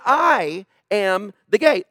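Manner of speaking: "I am the gate" drawn out with pauses; emphatic quote. Retold or imitated. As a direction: lean slowly on each part of "I am the gate". Preacher drives home Jesus's claim.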